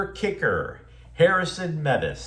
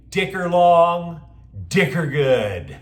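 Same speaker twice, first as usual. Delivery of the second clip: catchphrase call; 5 dB louder, slower than usual. Shown as a demonstration. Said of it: "you can say".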